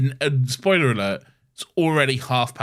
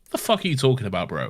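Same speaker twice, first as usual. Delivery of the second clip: fast laughing quote; faster than usual. Retold or imitated. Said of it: "Clara's like".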